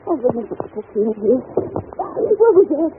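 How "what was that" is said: sudden high, loud alarm; startled. Acted. Governess alone in a dark wing hears a noise, startled.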